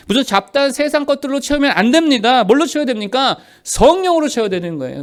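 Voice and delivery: high, insistent sermon delivery; forceful preaching. Real, not acted. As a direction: drive each warning home to the congregation. Preaches emphatic list of warnings.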